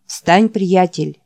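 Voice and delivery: slow, drawn-out urging; slow plea. Acted. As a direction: drag it out, begging. Jack pleads slowly. (медленно, уговаривая)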